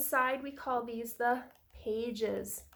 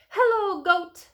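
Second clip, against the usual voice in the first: Duck calling hello; 6 semitones higher, 7 dB louder than usual. A narrator's reading. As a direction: call out as a storybook duck. Duck greets Goat in story.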